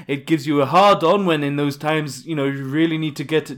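drifting put-on posh accent; dropping fake accent. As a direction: let the fake accent slip in and out. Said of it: "my accent keeps changing".

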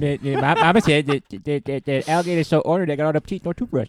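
stuttering. Pretend. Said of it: "Yeah, I stutter".

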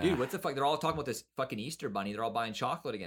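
hammed-up confused chocolate guy; half-mocking rant as the first chocolate seller. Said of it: "Then it's like".

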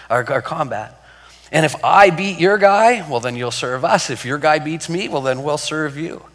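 lightly voiced giant daring anyone to fight; taunting giant Goliath. Preacher voicing Goliath taunting Israel, mock-boastful and loud.

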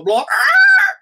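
loud, high bird screech; sudden piercing squawk breaking out of speech. Retold or imitated. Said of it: "he would squawk like a bird".

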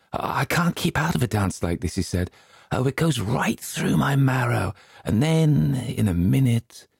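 fidgety, can't-resist excitement; lightly voiced Nibbins. A narrator's reading.

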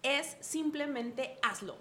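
every word of "Es simplemente hazlo" stretched slowly; slow, firm "Es simplemente hazlo". Real, not acted. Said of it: "la respuesta es igual para todos".

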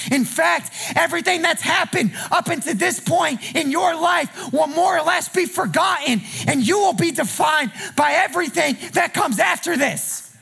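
rising preacher cadence over the music; full-voiced sermon climb; preaching at full force. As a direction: preach it, build the fire. Preacher building with music under.

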